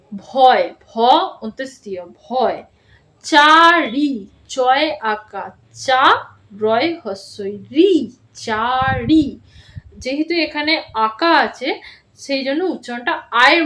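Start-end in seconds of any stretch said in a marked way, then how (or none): 0.1-2.6 spelling out. Shown as a demonstration. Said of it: "আমি কিভাবে বলছি". 3.3-9.3 each letter drawn out slowly, then blended; spelling out slowly. Shown as a demonstration. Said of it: "আমি কিভাবে বলছি".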